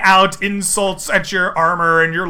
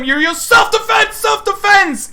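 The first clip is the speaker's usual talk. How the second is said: high mocking lilt on self-defense; teasing singsong; 13 semitones higher than usual. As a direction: rub in the excuse playfully. GM teases player's excuse.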